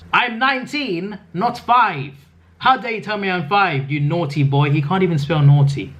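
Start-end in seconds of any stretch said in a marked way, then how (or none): 0.1-4.7 mock whiny reading.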